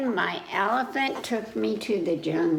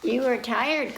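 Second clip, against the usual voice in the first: grandpa answering; 3 semitones higher than usual. Acted. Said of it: "Grandpa said".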